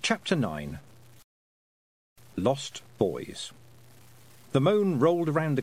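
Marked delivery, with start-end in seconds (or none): none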